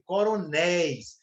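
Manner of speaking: "Coronéis" stretched on its last syllable; drawn-out example word. Shown as a demonstration. Teacher isolating an example for students, drawn out. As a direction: sound out "Coronéis" slowly.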